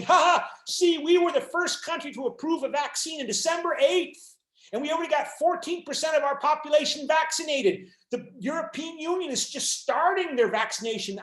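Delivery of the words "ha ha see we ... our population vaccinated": gloating taunt. Retold or imitated. Lecturer playing Britain boasting about its vaccine lead, mock gloating. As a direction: crow over the rival like a smug winner. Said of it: "and Britain saying".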